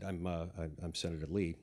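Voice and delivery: low, hesitant imitated mumble; mumbled. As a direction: stumble softly over introducing yourself. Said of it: "so I kind of mumbled it".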